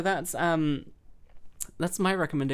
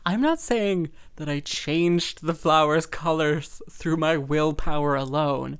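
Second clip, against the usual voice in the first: slow, grand diva voice, a touch louder at the end; famous diva singer impression; 5 dB louder, slower than usual. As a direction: play the self-satisfied star, drawn out. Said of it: "And she's like".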